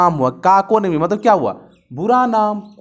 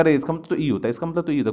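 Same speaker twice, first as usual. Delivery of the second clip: quiet realization; 3 semitones lower, 6 dB quieter, much faster than usual. Acted. Voices a student recalling a meaning.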